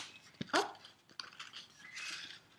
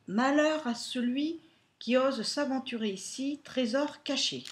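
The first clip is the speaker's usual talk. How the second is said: raised ominous reading voice; spooky reading; 5 semitones higher, 7 dB louder than usual. Acted. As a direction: read it like a pirate curse. Reading a spooky note aloud.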